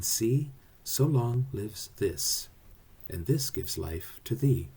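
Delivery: measured sonnet reading; unhurried poetic delivery, slowing for the closing couplet; poem recitation. Acted. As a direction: recite the verse with care, letting the iambic beat show.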